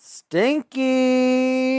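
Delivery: mock disgust. Exaggerated disgust joke.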